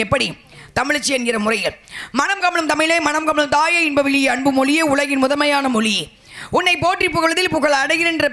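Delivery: ceremonious, declamatory welcome; formal stage oration. Acted. Heroine welcomes the visiting hunter and praises Tamil, formal declamation. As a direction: declaim it like classical stage verse.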